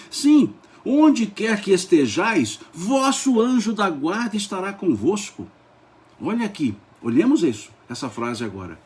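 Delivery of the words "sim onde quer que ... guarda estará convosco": solemn, high-pitched reading, drawn out slowly; leitura entusiasmada. Real, not acted. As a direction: declaim it with rapt enthusiasm. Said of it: "e aí vou falando alto". (leitura solene e entusiasmada, em tom elevado)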